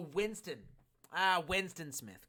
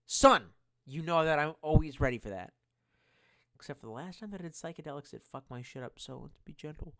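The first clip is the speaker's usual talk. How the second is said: excited shout; 8 dB louder than usual. Real, not acted. Excited reply to podcast invite.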